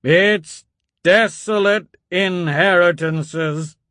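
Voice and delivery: put-on old priest roaring the verse as he burns the page; roared. A narrator's reading. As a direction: thunder the words like a fire-and-brimstone sermon. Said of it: "roared again".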